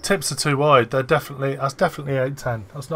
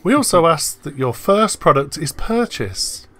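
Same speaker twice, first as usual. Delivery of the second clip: reading out a message. Retold or imitated. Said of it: "this is a DM".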